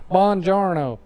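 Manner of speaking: Inglourious Basterds Italian. Pretend. Quoting the film to co-host, mock Italian accent. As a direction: mimic a bad movie Italian accent. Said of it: "That's my Inglourious Bastards".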